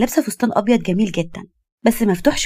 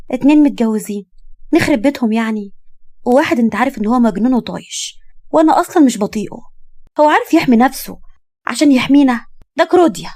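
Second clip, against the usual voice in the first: put-on argumentative young woman; 3 semitones higher than usual. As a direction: build to scornful dismissal. Young woman explains her choice.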